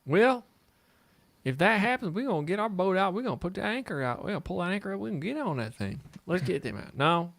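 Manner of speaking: playful country bumpkin bragging about boats; hillbilly voice. Pretend. Hillbilly boat fantasy voice.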